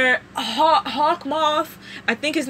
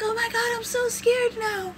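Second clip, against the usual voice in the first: mock scared; 10 semitones higher, 5 dB quieter than usual. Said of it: "She's like".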